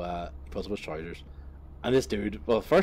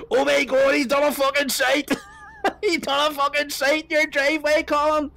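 much higher, louder hammed-up shriek; 10 dB louder than usual. Girlfriend shrieking to Colin about the driveway, mock shriek. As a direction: scream it like a scandalised girlfriend. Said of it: "just shrieks".

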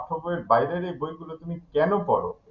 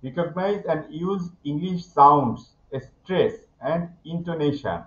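slow textbook reading; much slower than usual. Shown as a demonstration. Teacher reads textbook objective aloud.

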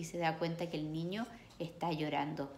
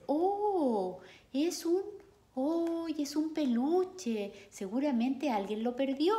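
put-on high, slow girl's voice; girl discovering a lost teddy; surprised girl; 8 semitones higher, 4 dB louder, slower than usual. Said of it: "Y la niña dice". (niña sorprendida con voz aguda y lenta)

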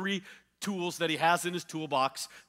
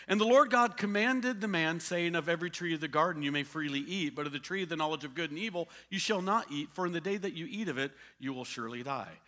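scripture reading; faster than usual. Acted. Preacher reading Genesis to the congregation, measured. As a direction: read the verse with weight.

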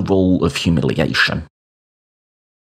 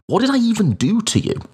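high, fast shouted outburst; shouting; faster than usual. Retold or imitated. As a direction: burst out at them, pitched high. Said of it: "I remember just shouting that at them".

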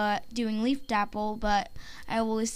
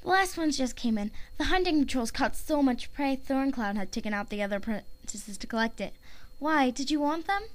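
softer, lightly voiced cat character; Petal Nose; 4 dB quieter than usual. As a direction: report the hunt softly, in light character. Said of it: "here is my Petal Nose audition".

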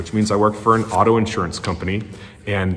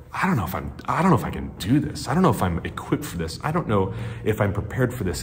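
quiet self-doubt; 5 dB quieter, faster than usual. Retold or imitated. Doubting himself on first day.

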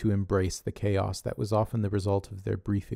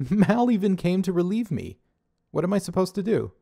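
high, laughing, innocent protest; laughing excuse; 10 semitones higher, 4 dB louder than usual. Acted. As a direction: giggle through a fake-innocent excuse.

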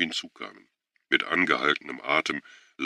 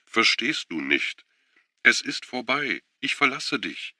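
upset woman; 9 semitones higher than usual. A narrator's reading. She insists it's over.

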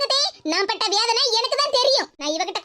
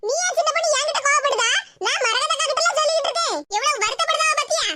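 higher, needling retort; quarrelsome woman; 3 semitones higher than usual. Acted. Geetha snaps back at her accuser in the quarrel, higher and needling. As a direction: bicker back with a wounded, sly edge. Second woman argues, other voice.

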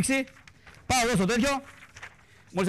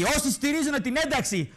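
higher, slow mock sermon; mock preaching shout; 8 semitones higher, slower than usual. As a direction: thunder it out like a fiery bishop. Mock bishop's condemnation. (ψηλό, αργό κήρυγμα σαν φωνή)

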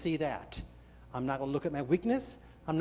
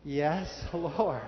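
laughing yes. Shown as a demonstration. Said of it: "practice it one more time".

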